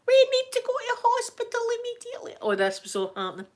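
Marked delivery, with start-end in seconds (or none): 0.1-2.4 high, fast hammed-up panic; mock panicked scream. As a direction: rattle it off in fake alarm. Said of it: "I'm screaming".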